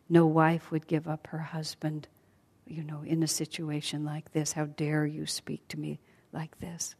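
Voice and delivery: whispered, drained defiance; trembling captive answers in a whisper; weary whisper. Acted. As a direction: barely breathe the defiance. Exhausted Sita answers demonesses.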